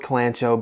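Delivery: kalanchoe said kuh-LAN-choh, CH as in chair; chosen pronunciation. Shown as a demonstration. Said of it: "C H in them".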